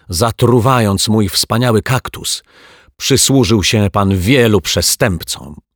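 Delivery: loud, accusing and bitter; furious detective accusing his rival; angry accusation. Acted. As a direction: keep scolding him at full volume. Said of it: "wrzasnął detektyw Pozytywka".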